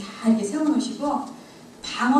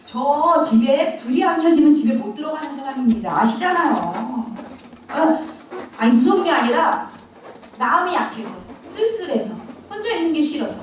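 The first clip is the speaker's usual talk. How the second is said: indignant protest; 3 semitones higher than usual. Retold or imitated. Praying to God, refusing the mission: indignant plea. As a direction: argue back to God, straight-faced and insistent. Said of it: "제가 정색을 하기 시작했습니다".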